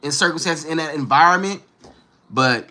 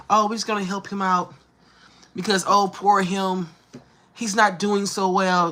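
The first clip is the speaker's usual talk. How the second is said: mock pity; 4 semitones higher than usual. Mocking pitying helpers.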